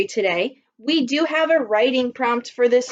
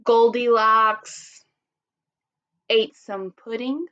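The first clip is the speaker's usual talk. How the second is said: model sentence; much slower than usual. Shown as a demonstration. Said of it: "Then you're going to write".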